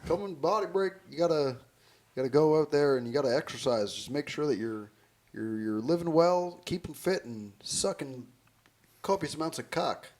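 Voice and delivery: lightly voiced upbeat TV host; a hint of Doctor Phil hyping exercise; mock Doctor Phil pitch. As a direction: sell the workout like a cheesy TV doctor. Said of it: "like, old Doctor Phil".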